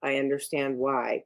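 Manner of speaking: calm, unemotional reply; very flat. Acted. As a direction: say it without any emotion. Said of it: "it's very flat. It's not emotional".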